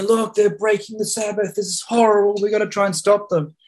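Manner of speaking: high-pitched imitation of agitated protesters; mock yelling. Zealots protesting to rabbis about Sabbath drivers, imitated high-pitched yelling. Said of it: "who were yelling and screaming".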